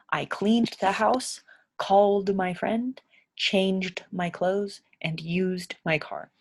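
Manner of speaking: "cleaned", "called", "changed", "used" said slowly, each final d clear; slow drill sentence, stressing each d ending. Shown as a demonstration. Teacher to learners, slowly drilling d endings. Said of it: "all of these end in a d sound".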